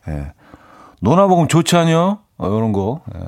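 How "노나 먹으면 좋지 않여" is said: Chungcheong dialect. Shown as a demonstration. Radio host proudly demoing his Chungcheong dialect for listeners. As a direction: show off a native-sounding Chungcheong line. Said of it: "자신 있게".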